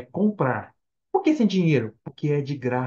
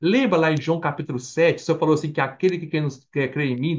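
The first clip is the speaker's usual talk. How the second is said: ordinary delivery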